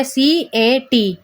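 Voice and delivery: सी ए टी as three separate letters; letters said separately. Shown as a demonstration. Teacher showing cat broken into phonemes, letters spaced out. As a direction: say सी, then ए, then टी, each apart. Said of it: "अलग-अलग हो गया".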